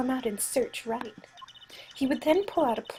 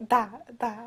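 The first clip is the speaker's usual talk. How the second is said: Russian accent attempt. Shown as a demonstration. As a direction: test out a Russian accent under your voice. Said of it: "if I can do a Russian accent again".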